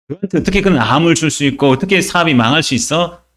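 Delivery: imitated scoffer's challenge; mocking. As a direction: throw doubting questions at a believer, mildly jeering. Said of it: "우리를 조롱할 수 있는 거예요".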